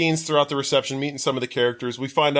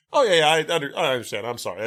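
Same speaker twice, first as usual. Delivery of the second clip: painfully polite; 3 semitones higher, faster than usual. Retold or imitated. Rejected friend backs off from bridesmaid, painfully polite. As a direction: stammer a meek, mock-British apology. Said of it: "so painfully Britishly polite".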